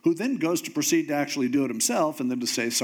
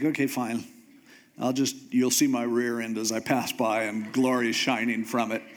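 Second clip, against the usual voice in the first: lower, resigned giving in; grudging God; 5 semitones lower than usual. Retold or imitated. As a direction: sigh it out as a reluctant deity.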